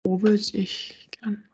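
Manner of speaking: slow, thoughtful whisper to herself; musing whisper. Real, not acted. Pondering where she'd go with him, slow whisper. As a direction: think aloud in a slow whisper.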